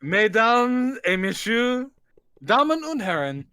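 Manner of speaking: hammed-up ringmaster addressing the crowd; stage announcer. Showman presenting the monster to an audience, grand announcer voice.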